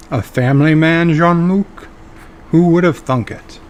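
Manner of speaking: Q impression. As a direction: tease him like an all-powerful prankster. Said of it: "Q drops in and says something like".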